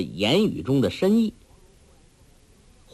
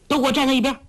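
shouted command; 13 semitones higher, much faster than usual. A narrator's reading. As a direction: yell them all out of the way. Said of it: "喝道".

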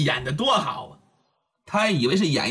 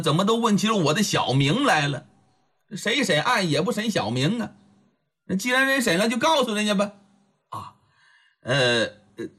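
usual speaking voice

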